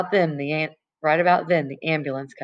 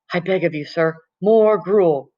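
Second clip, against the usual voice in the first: Oliver Twist beggar; 4 dB louder, slower than usual. Retold or imitated. Freak repeats his gruel begging.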